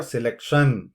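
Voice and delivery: selection with TION punched; wrong final stress. Shown as a demonstration. Teacher shows a second mistake, selection stressed on TION. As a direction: hit the last syllable of selection hard. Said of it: "listen to the sounds that I made".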